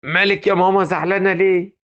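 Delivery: alarmed call. Acted. Wife calling out to mother.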